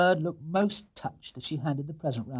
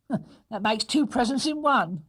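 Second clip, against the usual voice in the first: higher, dry amused voice; higher wry housekeeper; 9 semitones higher, 3 dB louder than usual. Acted. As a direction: make a wry remark. Mrs Bird amused.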